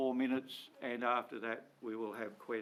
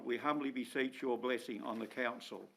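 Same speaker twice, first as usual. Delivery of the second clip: prayer. Acted. Mayor opens meeting with prayer.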